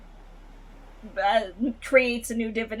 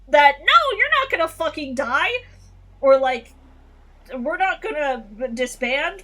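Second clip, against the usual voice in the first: heated rant; 4 semitones higher, 3 dB louder than usual. Retold or imitated. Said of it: "I'm losing my voice because I'm getting heated".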